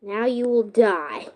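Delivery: slow, loud mock villain threat; booming echoing villain monologue. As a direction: ham it up like a movie villain. Playing villain in game.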